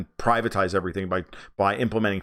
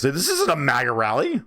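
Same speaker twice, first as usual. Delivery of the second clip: higher-pitched, indignant mock shriek; mock scream; 6 semitones higher, 3 dB louder than usual. Joy Behar scolding her audience, mock scream. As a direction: imitate an outraged scream, rising at the end. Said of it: "to scream at her audience".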